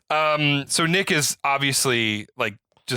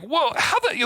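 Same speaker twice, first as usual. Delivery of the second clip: retold surprise; 13 semitones higher than usual. Speaker's own disbelief.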